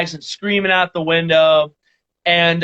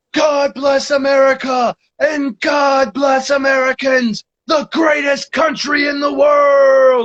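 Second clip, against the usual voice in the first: play-acted, booming, high ring-announcer yell, "world" drawn out; 8 semitones higher than usual. Retelling yelling out the window while riding past people, retelling a wrestling-announcer yell. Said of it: "Like I was announcing like a wrestling match".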